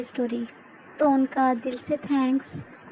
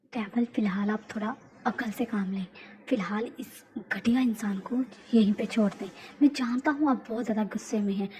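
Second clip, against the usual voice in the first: lower, measured reasoning; a hint of a cool-headed henchman; calm aide; 3 semitones lower than usual. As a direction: aide calming his angry boss. Suga reasons with the boss.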